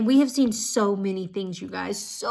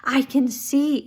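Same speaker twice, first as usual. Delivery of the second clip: slow, raised, joyful mock cry; happy exclamation; 4 semitones higher, 4 dB louder, slower than usual. Healed woman telling instructor she can see, happy exclamation. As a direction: imitate her joy, higher and drawn out. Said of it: "like, screaming and so happy".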